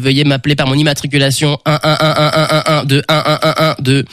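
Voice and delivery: flat robot voice. Pretend. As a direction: speak like a polite robot. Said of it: "Je suis un robot".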